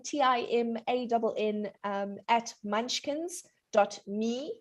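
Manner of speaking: email spelled out in a quick run; too fast. Real, not acted. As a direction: rattle off the address. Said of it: "You said it all too fast".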